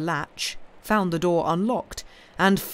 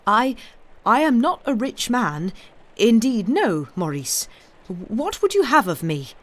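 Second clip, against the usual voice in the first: higher, louder, faltering plea; frightened; 6 semitones higher, 5 dB louder than usual. Acted. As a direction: stammer out of fear. Frightened man pleads.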